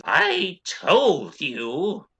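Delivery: high, drawn-out calling out. Acted. Pony rider pointing down at a player, high slow call. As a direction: call it out slowly in a high character voice. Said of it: "he calls out in a high voice".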